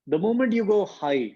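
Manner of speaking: drawn-out slow instruction; slow teacherly call to go high; teacher's cue, slow. Retold or imitated. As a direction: stretch it out slowly like a vocal coach. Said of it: "singing के किसी teacher ने बताया".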